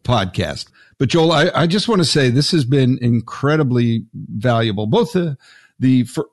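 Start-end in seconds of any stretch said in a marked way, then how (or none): 0.0-0.7 put-on old-time radio announcer. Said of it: "I almost feel like, uh, one of those old-time, uh, radio announcers".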